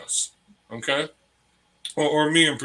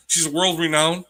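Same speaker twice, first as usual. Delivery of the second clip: laughing; 5 semitones higher than usual. Real, not acted. Laughing about the mom's claim.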